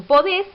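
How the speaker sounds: podés with the final -dés stressed; stress on last syllable. Shown as a demonstration. Teacher showing where the accent falls in podés, stress on last syllable. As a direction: land the accent on the end of podés. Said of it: "el acento cae en la última sílaba".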